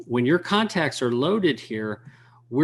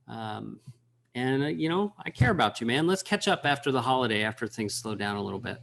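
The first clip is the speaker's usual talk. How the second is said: casual voicemail. Shown as a demonstration. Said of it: "let me give you an example".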